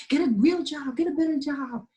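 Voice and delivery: imitating mom. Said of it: "always telling me".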